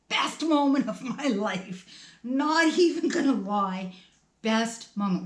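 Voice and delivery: relieved. Real, not acted. Relief when police arrive.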